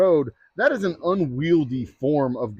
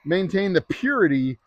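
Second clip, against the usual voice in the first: mock oath; 3 semitones higher, slower than usual. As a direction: recite the clerk's oath with light mock solemnity. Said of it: "this is the silliest".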